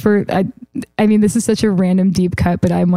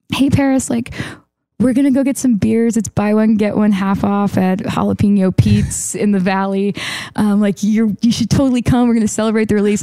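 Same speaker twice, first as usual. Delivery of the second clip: casual invitation. Retold or imitated. Songwriter retelling her email invite to a star, casual invitation. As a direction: read your own email out as a breezy invite.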